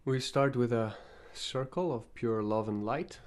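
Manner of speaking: calm invocation with long pauses between phrases; guided meditation. Acted. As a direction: lead them gently into the meditation, phrase by phrase.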